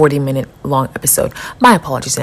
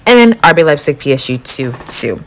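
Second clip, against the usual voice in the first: breathless from rattling off scores; winded, catching breath. Real, not acted. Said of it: "I'm out of breath".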